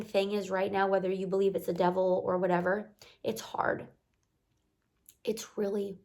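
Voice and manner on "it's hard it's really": whispered. Real, not acted. Whispering to viewers that life is hard. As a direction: drop to a breathy whisper on it's hard.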